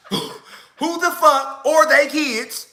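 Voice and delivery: slow, drawn-out stern grandfather; a hint of a stern old granddad demanding answers; slow stern question to the lined-up family; granddaddy's voice. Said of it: "exactly how my granddaddy said it".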